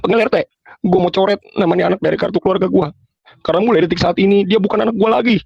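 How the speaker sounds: high mock shout for the neighbourhood head; imitating furious parents. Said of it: "tetangga bahkan mungkin pada denger".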